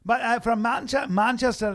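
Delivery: mock Manchester speech, drifting toward Irish; off-target Manchester accent; attempted Manchester accent. Shown as a demonstration. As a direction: demonstrate a Manchester accent, not quite right. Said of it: "they talk a bit like that".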